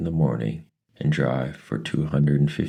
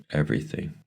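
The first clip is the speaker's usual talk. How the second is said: plain reading voice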